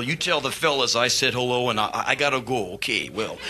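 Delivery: a hint of a mellow older rocker; lightly voiced polite singer. A singer thanking the band after the show, lightly voiced. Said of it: "I see him after the show".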